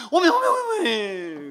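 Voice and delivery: high, loud, slow Jeolla oh-my; Jeolla exclamation. Retold or imitated. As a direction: stretch out each 오메 in astonishment. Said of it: "그러면서". (장모님의 느리고 높은 전라도식 오메)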